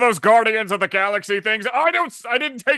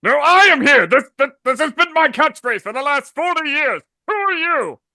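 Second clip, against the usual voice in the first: heroic voice; 4 semitones higher, 4 dB louder than usual. Acted. Plays All Might, confused.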